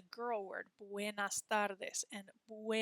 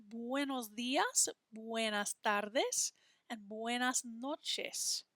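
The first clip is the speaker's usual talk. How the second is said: slow model; slower than usual. Shown as a demonstration. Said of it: "let's have a look at".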